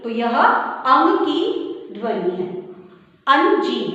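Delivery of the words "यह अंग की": slow teaching emphasis. Shown as a demonstration. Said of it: "teacher stressing the sound".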